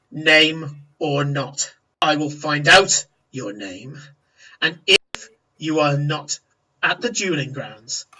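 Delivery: understated orc menace, words spaced out; lightly voiced threatening orc.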